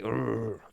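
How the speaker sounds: short growl imitating a fired-up coach; intense coach growl. Showing the fiery coach he would want, a mock growl. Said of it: "like, the Lions head coach".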